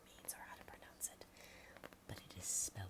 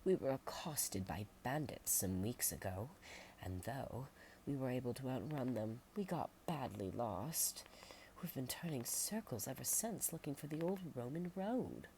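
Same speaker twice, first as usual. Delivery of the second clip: a touch higher and louder, worn out; weary traveler; 5 semitones higher, 3 dB louder than usual. Acted. Lost visitor telling villagers about bandits. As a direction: tell how you got lost, exhausted.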